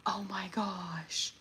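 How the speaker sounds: slow, breathy whisper of amazement; awed whisper. Real, not acted. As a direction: hush in awe. Awed reaction to wig.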